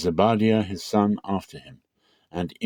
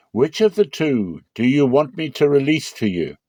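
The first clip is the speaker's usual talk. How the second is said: governor's question; 6 semitones higher, 4 dB louder than usual. A narrator's reading. Governor asks the crowd.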